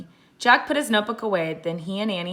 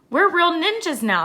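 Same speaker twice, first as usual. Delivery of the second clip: higher and louder, bubbling with pride; excited; 10 semitones higher, 6 dB louder than usual. A narrator's reading. Annie to Jack after finding east, excited. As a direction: cheer it like a proud kid.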